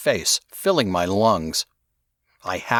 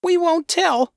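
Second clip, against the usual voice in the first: shouted; 3 dB louder than usual. Acted. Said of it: "the two boys shouted together".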